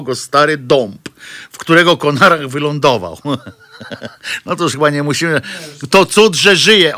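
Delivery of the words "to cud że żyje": slow, higher, louder pious priest voice; priestly tone. Retold or imitated. Host mimicking a pious village priest, slow and raised. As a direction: intone it like a country priest. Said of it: "to jest typowo księżowskie".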